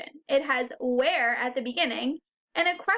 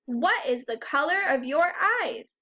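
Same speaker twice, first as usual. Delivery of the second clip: "What is the color of your eyes?" lifted on "eyes"; question rise. Shown as a demonstration. Teacher showing how questions sound, "eyes" going up. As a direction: let the pitch climb on "eyes" to ask it. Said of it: "your voice goes up at the end".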